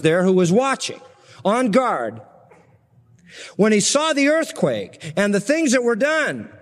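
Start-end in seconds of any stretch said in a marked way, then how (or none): 3.6-6.5 slow, reverent awe; slow awestruck scripture read; awed reading. Real, not acted. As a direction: let the wonder land slowly. Reading centurion's awed confession.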